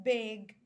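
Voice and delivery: big said slowly, vowel stretched; slow demo word. Shown as a demonstration. Teacher models the word big slowly. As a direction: draw out big for the class. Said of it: "لما تكون ما بين حرفين".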